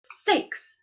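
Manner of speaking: high, scandalized bear exclamation; middle-sized Mama Bear voice. A narrator's reading. Mama Bear finds someone has been there, middle-sized voice. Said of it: "in her middle-sized voice".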